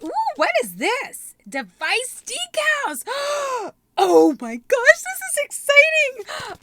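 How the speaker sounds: high, slow gasping squeals of delight; thrilled squeal. Real, not acted. Unboxing a surprise subscription box.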